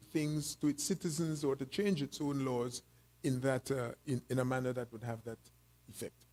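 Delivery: breathless, fading to quiet; talking short of breath. Real, not acted. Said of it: "Sorry for being breathless".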